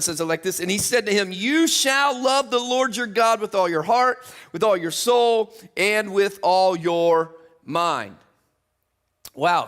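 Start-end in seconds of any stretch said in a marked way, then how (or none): 1.3-8.1 slow, weighty words, each phrase drawn out; slow solemn scripture reading. Real, not acted. Preacher reading Jesus' words to the congregation, slow and solemn. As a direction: lay the commandment down slowly. Reading the great commandment aloud.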